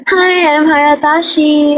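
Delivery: slow, sing-song intro of a short name; mock self-introduction. Shown as a demonstration. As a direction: introduce yourself slowly, trying out the name. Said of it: "kaysa naman sa". (dahan-dahang pagpapakilala)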